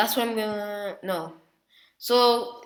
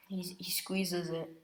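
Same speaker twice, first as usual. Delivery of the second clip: hushed whisper for the grip; 10 dB quieter than usual. Retold or imitated. Narrator hushes to a whisper as Naruto squeezes. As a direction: drop to a whisper while telling it. Telling a tense fight scene.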